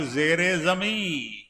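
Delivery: ਜ਼ੇਰੇ said slowly with a clear i-vowel link, ਜ਼ੇਰੇ ਜ਼ਮੀਂ; slow teaching model of ਜ਼ੇਰੇ ਜ਼ਮੀਂ with the izafat; careful pronunciation. Shown as a demonstration. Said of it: "ਇੱਥੇ ਜ਼ੇਰੇ ਕਰਨਾ ਪਊ". (ਜ਼ੇਰੇ ਜ਼ਮੀਂ ਦਾ ਹੌਲੀ ਸਾਫ਼ ਉਚਾਰਨ)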